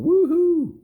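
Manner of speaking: high, loud joyful woohoo; a big excited cheer on the bike; gleeful whoop. Acted. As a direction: whoop it out like a thrilled rider. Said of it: "on the motorcycle going".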